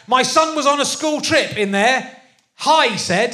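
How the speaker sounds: recited one-star review; reading a review aloud. Acted. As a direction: read out an online complaint word by word.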